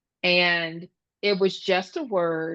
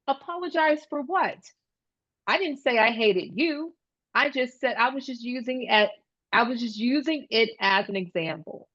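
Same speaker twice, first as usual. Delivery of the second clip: lightly voiced kid protesting, higher pitch; defensive child; 4 semitones higher than usual. Kid tells classmate it was just an example, mildly defensive. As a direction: imitate a child defending himself. Acted retort in kids' quarrel.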